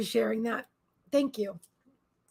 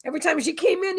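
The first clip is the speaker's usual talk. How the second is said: ordinary talk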